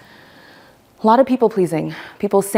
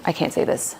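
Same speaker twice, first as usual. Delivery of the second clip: whispered; 6 dB quieter than usual. Retold or imitated. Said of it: "You might feel like".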